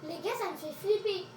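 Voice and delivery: scared horror game streamer. Real, not acted. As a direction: admit your fear to viewers. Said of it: "J'ai trop peur".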